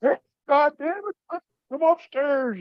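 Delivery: mock sergeant bellowing from below; gruff sergeant calling. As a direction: yell it up the stairs like a sergeant. Sergeant hollering for him upstairs.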